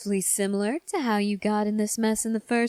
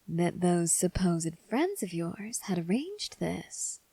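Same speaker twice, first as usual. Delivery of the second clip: whispering. Acted. Character voices sinister whispered line.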